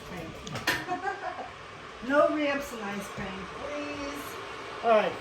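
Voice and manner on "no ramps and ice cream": usual speaking voice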